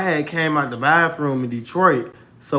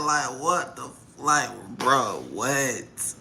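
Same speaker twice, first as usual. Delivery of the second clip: lower, softer stunned mutter; muttered disbelief; 4 semitones lower, 8 dB quieter, much slower than usual. Retold or imitated. Talking to herself about his scratching, low mutter. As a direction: mutter it under your breath.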